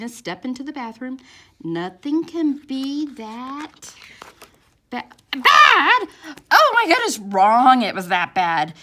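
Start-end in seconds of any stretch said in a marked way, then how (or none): 1.6-8.7 goes high and loud in shock. Acted. Mom stepping into the bathroom, shocked, high and loud. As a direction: gasp at the sight.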